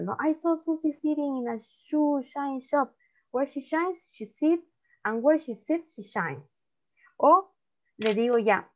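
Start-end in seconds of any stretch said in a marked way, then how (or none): 0.2-6.6 tongue twister run through more briskly; quicker demonstration. Shown as a demonstration. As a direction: say it quicker, with shorter pauses between phrases. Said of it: "me van a decir rápido". (trabalenguas dicho más rápido)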